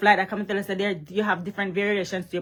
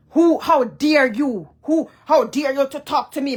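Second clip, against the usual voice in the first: indignant challenge; 2 semitones higher than usual. Real, not acted. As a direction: put him in his place, word by word. Confronting the man she criticises.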